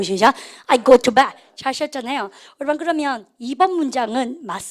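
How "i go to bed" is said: loud, clear class model; loud choral model. Shown as a demonstration. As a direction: call it out for the class to repeat. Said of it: "해보세요". (크게 따라 읽게 하기)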